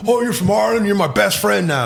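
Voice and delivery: imitating BJ, sing-song. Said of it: "this guy B J was like".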